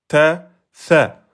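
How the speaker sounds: "ta", "sa" on one beat each; short vowel on "ta" and on "sa". Shown as a demonstration. Teacher showing one-beat syllables "ta", "sa", short. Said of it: "je passe en un temps".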